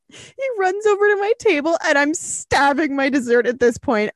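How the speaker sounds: high-pitched, agitated storytelling; worked-up retelling. Retold or imitated. Host reading as the guy runs to her table, worked up. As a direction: build the drama, voice well up.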